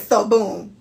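punchy Floridian story opener; lightly put-on Florida accent. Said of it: "read it like a Floridian".

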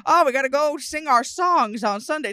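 mock Amish couple. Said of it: "It was straight up like".

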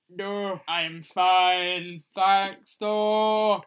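the cow politely turning down a drink, lightly Scottish. Acted. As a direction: play the cow with a Scottish lilt. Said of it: "The cow is Scottish".

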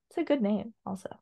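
whispered aside; breathy quick whisper. Real, not acted. Quiet aside.

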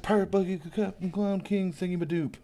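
high, riled-up mock clown voice; Buggy flipping out. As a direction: squawk it like an offended clown captain. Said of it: "Buggy flips out".

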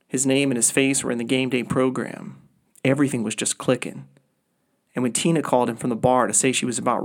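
measured, even audiobook-style reading; story narration. A narrator's reading. Author reading the first chapter of the book aloud, story narration. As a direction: read your story aloud in composed, deliberate phrases. Reads own fiction aloud.

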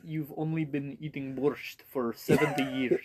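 a light, half-joking Russian accent; mock Russian, not quite committed; playful hint of a Russian accent. Shown as a demonstration. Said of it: "How do you do a Russian accent?".

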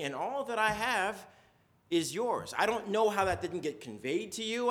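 calm a hurt son kindly; gentle father. Retold or imitated. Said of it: "Dad says".

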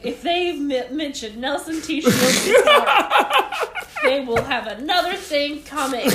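imagined indignant listeners. Pretend. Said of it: "They were like".

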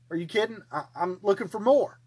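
can't believe what he's hearing; incredulous. Acted.

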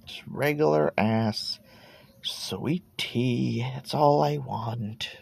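"regular ass" said slow and soft, "sweet tea" whispered; longing whisper. Real, not acted. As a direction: breathe "sweet tea" like a secret wish. Repeats his craving, whispering it.

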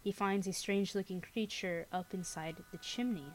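spooky storyteller reading aloud; story narration. A narrator's reading. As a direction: tell it like a campfire ghost story. Reads scary story aloud.

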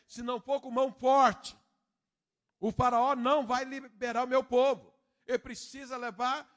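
loud, high, climbing preacher's cry; full-force preaching. Acted. (pregação inflamada, cada vez mais alta e aguda)

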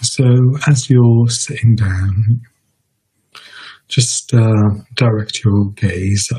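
measured meditation guidance with long pauses; guided meditation. Real, not acted. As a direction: guide listeners unhurriedly, leaving space between phrases.

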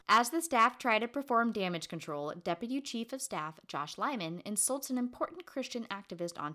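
animated read-aloud delivery; plot summary read. Real, not acted. Co-host reads the plot summary, animated recap.

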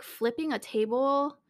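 high, loud, laughing disbelief. Real, not acted. Telling about the boy flipping a table, laughing. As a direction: laugh it out, can't believe it.

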